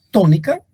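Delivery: "tónica" with TÓ punched; TÓ-ni-ca, weight up front; stress on first syllable. Shown as a demonstration. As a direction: lean on TÓ in "tónica". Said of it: "la sílaba tónica es".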